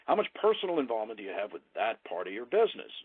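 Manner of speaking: lightly stressed "personal involvement" inside the full question; emphatic voice inflection. Shown as a demonstration. Trainer modelling a question for prospects, light emphasis on "personal involvement". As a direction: put a little lift on "personal involvement". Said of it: "There's the voice inflection again".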